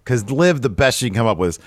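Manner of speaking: usual speaking voice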